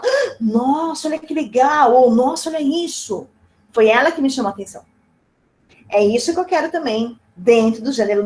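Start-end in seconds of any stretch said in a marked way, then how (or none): 0.0-3.3 a touch of mock amazement at a headline, higher; amazed reaction. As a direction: lightly act a passerby wowed by a headline. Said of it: "E a gente fala". (leve surpresa imitada, mais aguda)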